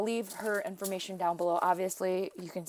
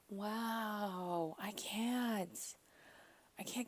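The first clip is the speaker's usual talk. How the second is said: breathless hushed whisper, barely voiced; awed whisper; 13 dB quieter, much slower than usual. Real, not acted. Friend whispering in awe over a gift from Josie.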